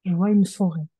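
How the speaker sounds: clearer repeat. Real, not acted. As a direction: speak up and repeat it plainly. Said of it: "Tu dis?".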